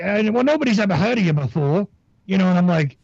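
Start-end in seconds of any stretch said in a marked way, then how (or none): 0.0-1.9 higher, lightly mocking imitation; Vinny Eastwood. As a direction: mimic a dismissive host slightly. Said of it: "he did this whole thing like".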